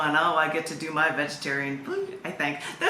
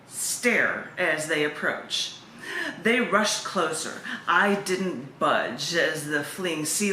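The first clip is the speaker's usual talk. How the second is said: unhurried, even recital of the poem; poem reading; slower than usual. Acted. Poet reading her sea lion poem aloud, steady and calm.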